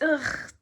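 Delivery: disgusted "ugh" of secondhand embarrassment; cringing ugh. Real, not acted. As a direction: let out a cringed groan. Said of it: "That made me feel cringe".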